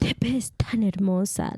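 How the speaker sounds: mock Yucateco accent sweet talk. Friend proving it's not attractive, mock Yucateco accent. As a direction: compliment in an unflattering Yucateco accent. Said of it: "There's no way they could be like".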